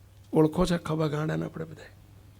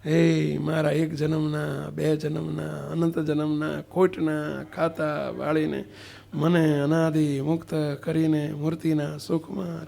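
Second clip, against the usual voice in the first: slow, devout recited prayer; measured devotional recitation; slow prayer recital; slower than usual. Acted. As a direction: intone it like a chant said by rote.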